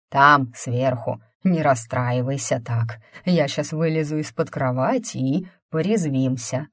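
inspired, confident bluffing ghost; creepy playful under bed whisper. Acted. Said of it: "блефовал так вдохновенно и убеждённо".

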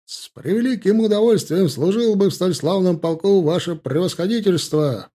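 high, loud and keen reply; eager shouted answer. A narrator's reading. Officer answering the general: eager, high shout. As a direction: shout it with parade-ground zeal. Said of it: "выкрикнул Димка".

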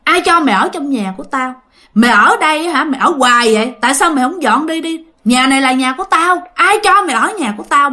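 indignant ghost laying claim to her house; retold scolding. Ghost orders mother out of her house, scolding. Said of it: "bà mới chửi mẹ".

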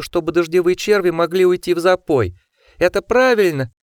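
high, sneering furious questions; mock him, voice rising to a shriek; shrill mocking rant. A narrator's reading. Osmond berating Steven.

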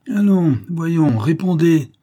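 loud, high, slow demand; scandé. A narrator's reading. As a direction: hammer out each word to force an answer. (ordre scandé, fort et lent)

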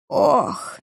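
hoarse gasping sigh; wheezing groan. Acted. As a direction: let out a rough, breathless ох. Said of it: "Он глубоко вздохнул, хрипя и кашляя".

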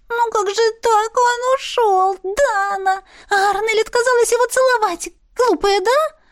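a giddy little mop creature squealing gossip; cheeky talking mop. Acted. Talking mop wakes Dana to ogle a man, high and excited.

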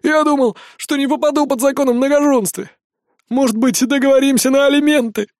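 high, pleading hopeful voice; hopeful whine. A narrator's reading. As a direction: beg for a deal in a high voice. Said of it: "с надеждой спросил он".

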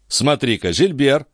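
mild genial surprise; good-natured exclamation. A narrator's reading. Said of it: "добродушно воскликнул он".

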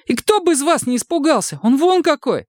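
very high thin retort; thin snap back. A narrator's reading. Загнанный Женя тоненько огрызается на обидчика.

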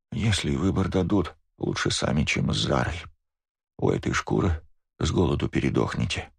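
put-on fast weak old voice mumbling; quick mumble. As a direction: mutter it quickly, worn out. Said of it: "Пробормотала быстро".

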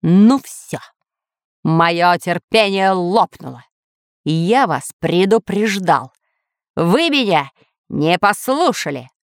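measured villainous anger; menacing shout. Acted. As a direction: lose patience slowly and ominously. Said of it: "грозно закричал повелитель".

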